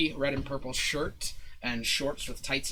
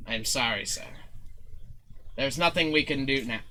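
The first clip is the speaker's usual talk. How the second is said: apologetic kobold servant; 3 dB quieter than usual. Acted. Kobold apologising for the misspelt flyers, humbly deferential. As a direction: apologise humbly, keeping it subdued.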